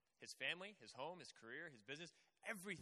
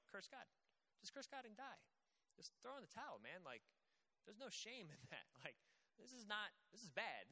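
friends' advice; 3 dB quieter than usual. Retold or imitated. Friends pushing Job to give up, mock sympathetic and soft. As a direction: fake comfort, half-hearted. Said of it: "people around him that are going".

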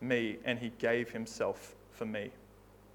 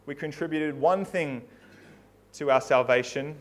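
earnest prayer. Acted. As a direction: pray humbly over the congregation. Pastor closes with prayer.

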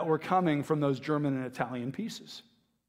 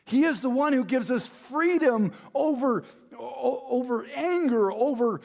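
high, impassioned sermon delivery; fervent preaching; 9 semitones higher, 3 dB louder than usual. Real, not acted. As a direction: preach it with rising fervour, pitched high. Preaching builds.

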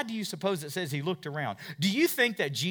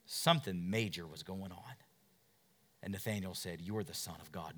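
hushed; 8 semitones lower, 8 dB quieter than usual. Acted. Quiet, intimate retelling.

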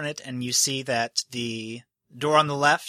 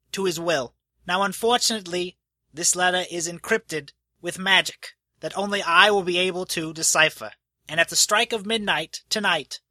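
a slightly higher, fussy host addressing the crowd; nervous host announcing; 5 semitones higher than usual. Acted. Host announcing the will to the gathered crowd, fussy and a bit high. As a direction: play him as a flustered official reading a will. Host NPC continues speech.

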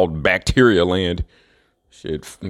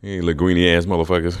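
ordinary delivery

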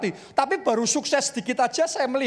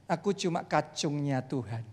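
humble; 4 semitones lower, slower than usual. Retold or imitated. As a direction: say it like a lowly servant. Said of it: "dia ngomongnya begini".

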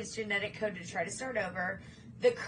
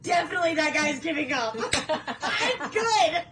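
laughing shout; 5 semitones higher, 7 dB louder than usual. Retold or imitated. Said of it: "I'm like".

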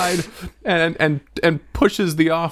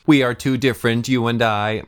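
lightly voiced villain; 5 semitones lower than usual. Mock melodrama villain line.

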